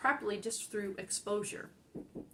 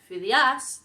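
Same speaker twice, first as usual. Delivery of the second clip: Phidias mis-stressed as fi-di-AS, end much louder; stress on last syllable; 5 semitones higher, 11 dB louder than usual. Shown as a demonstration. Teacher rejecting another wrong option, final-syllable stress on Phidias. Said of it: "not Phidias".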